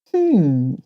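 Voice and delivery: plain reading voice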